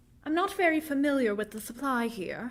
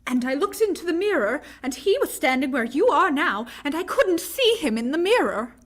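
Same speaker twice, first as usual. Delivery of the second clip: louder, pressing on, shaken; urgent telling; 6 dB louder than usual. Acted. Mina urgently tells the doctor about the mirror, shaken. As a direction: push the words out, frightened.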